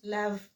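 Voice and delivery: lave said as one syllable, ending on v; final E silent. Shown as a demonstration. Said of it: "final E doesn't have that accent".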